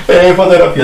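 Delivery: laughing. Real, not acted. Laughs at his own photo.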